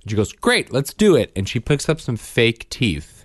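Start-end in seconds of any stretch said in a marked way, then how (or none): 0.3-1.3 high-pitched, imitated hygienist enthusiasm; mock an eager instructor jumping straight in; put-on peppy reply, pitched way up; chirpy eagerness.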